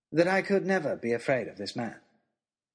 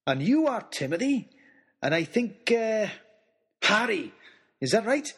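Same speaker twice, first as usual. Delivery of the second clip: put-on booming, delighted old giant greeting the boys; a big jovial old man, bursting with joy; jolly giant man; 6 semitones higher than usual.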